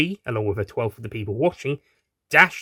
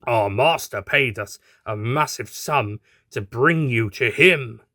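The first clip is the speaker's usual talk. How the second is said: thug laughing; slower than usual. Acted. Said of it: "said with a laugh".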